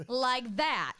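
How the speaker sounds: teasing echo of his words; Tiger. Retold or imitated. Parroting the friend's objection, light teasing impression. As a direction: mimic him right back, drawn apart. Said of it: "see, that was terrible".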